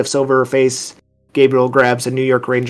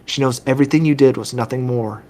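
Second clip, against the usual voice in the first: lightly voiced gentle therapist; understated, reassuring doctor; consoling doctor. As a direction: console a grieving patient, softening toward the end. Game master voices consoling doctor.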